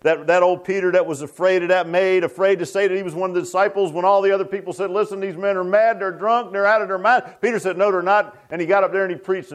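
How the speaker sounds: high-pitched, driving sermon delivery; fervent preaching. Real, not acted. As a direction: preach it with rising fervor.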